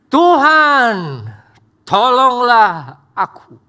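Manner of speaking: loud, desperate plea to the Lord; crying out for help. Acted. Peter sinking, crying out to the Lord for help, desperate shout. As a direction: cry out Tuhan tolonglah aku like a drowning man.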